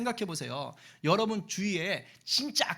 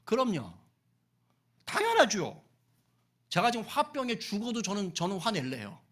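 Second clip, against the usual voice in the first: defiant talking back. Retold or imitated. Jonah defiantly talking back to God. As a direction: dig in your heels and refuse. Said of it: "그러면서 대드는 거예요".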